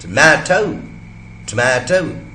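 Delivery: टोमेटो as t'MAA-toh, no vowel after the first T; टोमेटो with the first schwa dropped; aspirated, vowel elided. Shown as a demonstration. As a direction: puff the T straight into MAA in टोमेटो. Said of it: "aspiration करेंगे तो क्या बनेगा".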